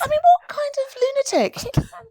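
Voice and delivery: high, slow, laughing almost to tears. Real, not acted. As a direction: squeak it out through laughter. Laughing about the fight.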